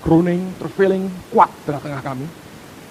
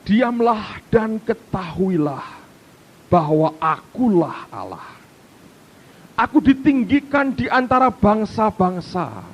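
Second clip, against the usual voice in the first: measured, drawn-out declamation; stately reading with long-held phrase ends; solemn scripture reading; slower than usual. Real, not acted. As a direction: proclaim the verse to a congregation. Reads the psalm aloud.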